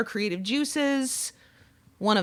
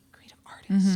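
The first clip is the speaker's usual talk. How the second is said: whispered, savouring the phrase; whispered echo; 2 semitones lower than usual. Real, not acted. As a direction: repeat it to yourself in a whisper. Savouring the grand term just read.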